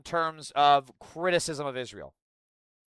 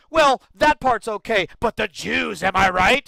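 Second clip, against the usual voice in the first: mock Nazi; 5 semitones higher, 7 dB louder than usual. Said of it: "the Nazis are like".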